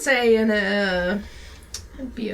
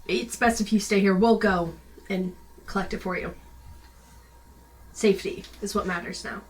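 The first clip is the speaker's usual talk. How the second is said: paladin voice. Acted. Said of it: "Full, like, paladin voice in motion".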